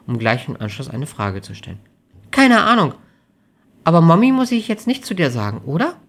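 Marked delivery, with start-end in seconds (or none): 2.3-6.0 put-on high, loud girlfriend voice; high-pitched, uneasy character; flustered young woman. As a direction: ask in a raised, worried voice. Amelie's voice in dialogue.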